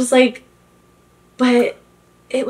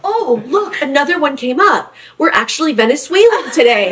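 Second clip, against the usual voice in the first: laughing mom impression; 4 semitones higher than usual. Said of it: "She's like".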